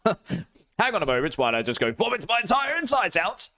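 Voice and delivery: high, strained, queasy voice; nauseated. Real, not acted. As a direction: talk like you might throw up. Gross bean mix, water break.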